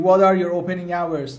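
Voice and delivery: slow, even repeat of the question. Shown as a demonstration. Teacher repeating the question slowly for a student.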